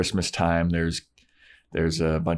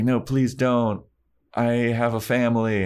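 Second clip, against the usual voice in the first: lightly acted begging, pitched up; quick higher-pitched retold plea; mock plea; 3 semitones higher than usual. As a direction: plead for mercy, half-hearted. Acting Daniel pleading for life.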